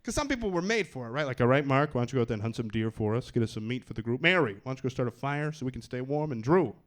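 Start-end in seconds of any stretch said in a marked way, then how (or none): 1.4-6.8 lower, bossy survivor leader doling out jobs; group leader. Acted. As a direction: hand out chores like a self-important leader. Acted group leader giving orders.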